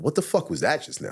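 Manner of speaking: high-pitched, baffled disbelief; retold shock. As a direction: relive being stunned by your own reaction. Stunned by own sudden rage.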